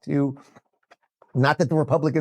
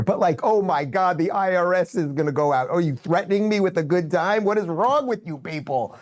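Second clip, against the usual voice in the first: escalating comedy rant; 4 semitones higher than usual. Acted. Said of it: "escalating comedy rant".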